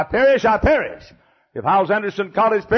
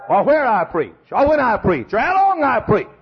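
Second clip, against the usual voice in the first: rising preach; 4 semitones higher, 3 dB louder than usual. Real, not acted. Building preaching climax.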